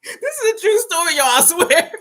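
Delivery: loud, high-pitched laughing insistence. Real, not acted. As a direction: swear it's true through big laughter. Laughing at her own story.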